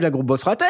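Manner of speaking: "la Groovebox ratée" read with a rise on "ratée"; title intonation. Shown as a demonstration. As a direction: sell "la Groovebox ratée" like a radio headline. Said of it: "Comme ça".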